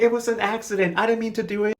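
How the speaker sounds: high-pitched mock pleading; pleading excuse. Acting Josiane making excuses.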